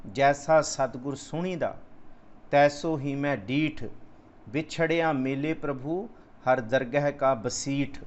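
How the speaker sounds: slow, measured recital of the verse; scripture recitation. Acted. Preacher reciting gurbani to the congregation, slow and measured. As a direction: draw each word out like sacred text.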